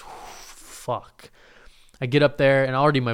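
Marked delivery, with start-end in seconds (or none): 0.0-1.3 breath out, whispered curse; dread under breath. Retold or imitated. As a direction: whisper it on a nervous exhale. Dread as audience waits.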